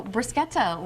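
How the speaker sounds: "bruschetta" with a hard k; Italian pronunciation. Shown as a demonstration. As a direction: try out "bruschetta" as broo-SKET-uh. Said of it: "learn something new".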